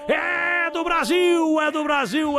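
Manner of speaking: drawn-out high goal scream; explosive goal commentary. Pretend. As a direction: scream the goal, fading at the end. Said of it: "Muito bom, hein?".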